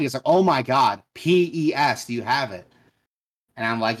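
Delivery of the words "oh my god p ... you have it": louder, higher mock exasperation; retold angry customer. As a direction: act out a fed-up customer losing patience. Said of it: "got mad".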